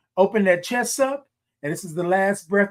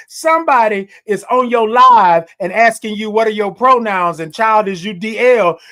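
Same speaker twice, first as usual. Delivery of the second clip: worked-up exhortation; 2 semitones higher, 6 dB louder than usual. Real, not acted. Worked-up recounting of intrusive viewer question.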